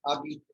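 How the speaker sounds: habite modelled alone as "a-beet"; silent H. Shown as a demonstration. Teacher repeats the word for a student, silent H. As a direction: give "habite" by itself with no H sounded. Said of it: "We pronounce it as".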